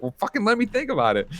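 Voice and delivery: imitating a fed-up girlfriend snapping back; retold exasperated snap. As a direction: fire it back like she's fed up. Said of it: "he starts screaming at her".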